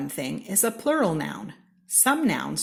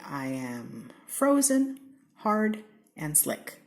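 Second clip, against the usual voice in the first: ice cube; slower than usual. Acted. Ice cube speaks in game.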